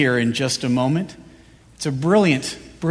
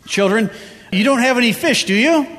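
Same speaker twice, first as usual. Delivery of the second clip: lifted, higher voice calling out to the boat; Jesus calling from shore; 5 semitones higher than usual. Acted. Jesus calls out from the shore to the disciples, higher and lifted. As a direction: call across the water to the fishermen.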